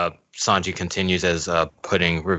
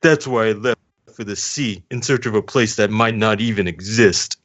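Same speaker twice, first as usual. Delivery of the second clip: Sanji voice; 3 semitones higher than usual. Pretend. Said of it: "Now you could do the voice".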